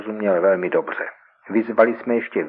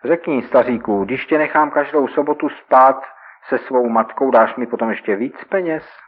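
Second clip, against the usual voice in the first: mocking; 5 semitones higher, 4 dB louder than usual. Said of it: "dělal jsem si legraci z toho člověka".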